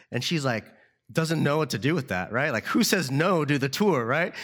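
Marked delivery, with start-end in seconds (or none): none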